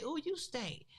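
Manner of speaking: high mock-disgusted ooh; teasing disgust. Woman telling boyfriend he stinks, high teasing disgust. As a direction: squeal it like you smell something rank.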